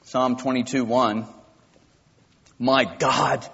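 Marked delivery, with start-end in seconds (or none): 2.6-3.4 rising, slowly building cry of a forsaken man; a man nailed to a cross crying out to God; anguished cry. Shown as a demonstration. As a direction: cry it out to God in anguish, slower and louder at the end. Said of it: "That's how it has to be said".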